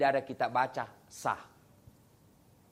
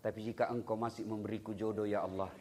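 retold prayer; 6 semitones lower, 6 dB quieter than usual. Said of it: "Saya pernah berdoa".

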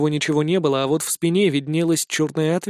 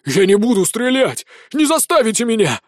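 louder defiant shout; desperate shout with a gun raised; 6 semitones higher, 3 dB louder than usual. Acted. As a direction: yell it at the room. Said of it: "закричал Череп".

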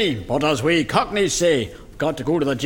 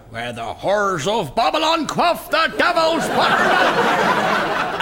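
preacher; 8 semitones higher than usual. Acted. Pearly king slips into preaching.

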